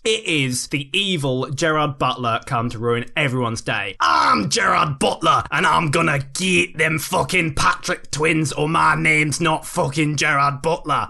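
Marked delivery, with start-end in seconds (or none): 4.0-11.1 villain voice. Acted. Villain introduces himself menacingly.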